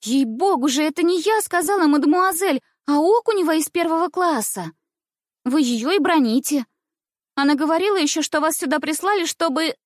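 put-on high, pert girl's voice; cheeky schoolgirl. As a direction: answer back like a saucy pupil. Cheeky schoolgirl answers back.

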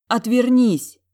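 high loud plea to turn away; ashamed desperate shout; desperate cry. Acted. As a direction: shout it near tears. Humiliated heroine cries out.

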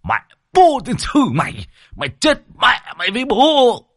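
high, loud, through gritted teeth; furious cursing. A narrator's reading. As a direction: curse the snake as you strike it dead. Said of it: "Ông nghiến răng nghiến lợi". (nghiến răng chửi rủa giận dữ, giọng cao và to)

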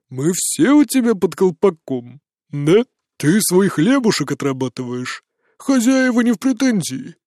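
drunk mockery. A narrator's reading. Drunk man needling the detective.

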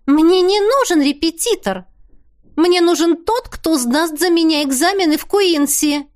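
высокий возмущённый девичий голос; выше и громче, с протестом; Теа возражает. A narrator's reading. (возмущённая Теа, выше и громче)

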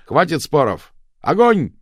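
loud, high order to fire; shouted command. A narrator's reading. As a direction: yell the order with full force.

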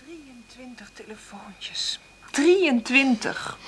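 slow, stunned whisper. Acted. Mother counting the calls she got, in a stunned whisper. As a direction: let the number sink in, barely audible.

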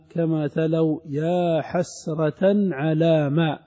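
slow measured chanting of the verse; drawn-out scholarly verse reading; verse recitation. Acted. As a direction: recite the poem line slowly, savouring it.

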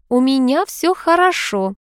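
slow, composed hint of reassurance; mild calm front. A narrator's reading. Lady signals all is fine, calm and slow. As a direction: say it as if nothing is wrong. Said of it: "Весь её вид говорил".

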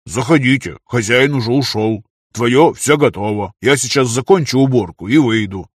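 a hint of hearty welcome; lightly voiced friendly workman. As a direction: lightly play a hearty young worker.

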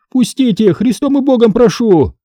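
high, pleading market woman; pleading trader. Acted. Trader begs soldiers to let her back in, high. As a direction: beg them in God's name.

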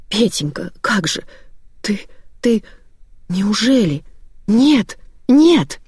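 breaking into a desperate no; horrified plea. A narrator's reading. Grandmother horrified, building to cry.

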